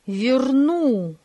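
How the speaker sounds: fuming reply to his brother; heated outburst. Acted. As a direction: snap back in anger. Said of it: "кипятился Фёдор Иванович".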